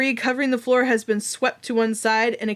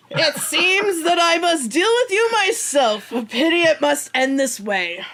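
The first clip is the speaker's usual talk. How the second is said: sneering gloating dark voice; 6 semitones higher, 3 dB louder than usual. Acted. Dark elf villain confronts party.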